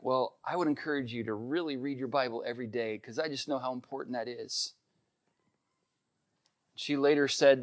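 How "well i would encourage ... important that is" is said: soft, low, retold kindly advice; gentle encouragement. Wife urging her friend to read daily, gently encouraging. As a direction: encourage her quietly, without pushing.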